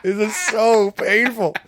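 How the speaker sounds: high, loud, drawn-out laughing wail; mock agony. Imitating listeners suffering through a bad show, wailing with laughter. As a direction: wail slowly as if it hurts to listen. Acted agonized listeners, teller cracking up.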